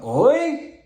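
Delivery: OI jumping up very high; fourth tone. Shown as a demonstration. Demonstrating fourth tone, OI thrown up high. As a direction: lift OI sharply to a high finish. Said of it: "Fourth tone".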